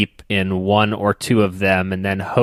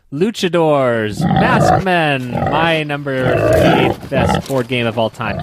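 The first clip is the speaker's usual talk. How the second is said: wrestling announcer; 3 semitones higher, 3 dB louder, slower than usual. Pretend.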